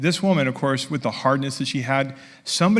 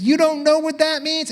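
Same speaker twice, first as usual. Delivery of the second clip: higher mock-incredulous mother; 11 semitones higher than usual. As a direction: ask back in gentle disbelief. Mother answers stepdaughter in story.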